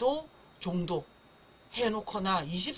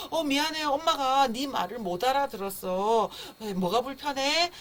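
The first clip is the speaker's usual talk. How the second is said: lightly acted mom apologizing to her baby, pitched up; soothing mother; 5 semitones higher than usual. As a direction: ask the baby gently what's wrong, as a mother would. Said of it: "엄마 목소리가 들려요". (아기를 달래는 엄마 말투)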